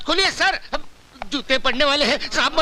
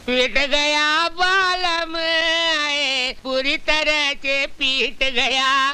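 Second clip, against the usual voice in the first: wailing lament; much slower than usual. Acted. Servant lamenting after being beaten.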